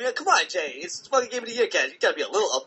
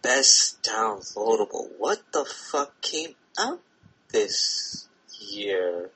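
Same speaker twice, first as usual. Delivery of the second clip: imitating Dub; 7 semitones lower than usual. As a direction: drop low like his friend. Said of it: "you sound like me".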